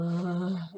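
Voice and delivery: demonstrated helpless sound; imitated helpless noise. Showing how they reacted when unable to move, imitated noise. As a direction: act out a helpless little noise. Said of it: "couldn't do anything but just go".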